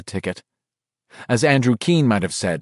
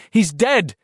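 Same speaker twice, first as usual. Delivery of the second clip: higher, insistent inner voice; urging inner voice; 13 semitones higher, 3 dB louder than usual. A narrator's reading. Bill's own mind pressing him to drop Richie, insistent. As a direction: push him to give up, sharply.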